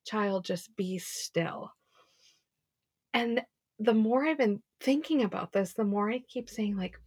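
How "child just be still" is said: put-on slow, softer, tender child just be still; calm and soothing, as God hushing a child; gentle fatherly voice telling a restless child to be still. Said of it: "he's like".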